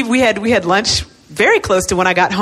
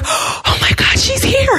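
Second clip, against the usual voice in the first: gasping, high excited squeal; high-pitched imitation of cheering; screaming angels; slower than usual. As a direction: imitate a thrilled fan, breath first then high. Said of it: "they're screaming and they're cheering".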